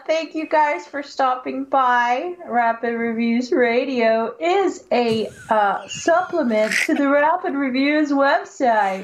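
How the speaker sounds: slow commercial announcer read. Pretend. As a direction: deliver it like a radio ad. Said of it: "Doing my best announcer voice".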